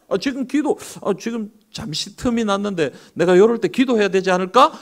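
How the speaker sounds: high, eager self-talk; sudden eagerness to pray; a believer's keen thought; eager inner voice. Retold or imitated. Voicing own wish to pray.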